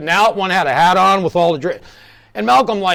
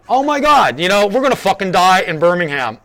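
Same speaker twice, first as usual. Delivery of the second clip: retold panic; 4 dB louder than usual. Band member fearing the gangsters, retold panicked outburst. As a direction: exclaim it like a hammed-up inner freak-out. Retells his fear of dying.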